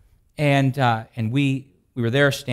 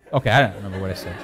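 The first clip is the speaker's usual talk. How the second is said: laughing; 8 semitones lower, much faster than usual. Real, not acted. Laughs off his own joke.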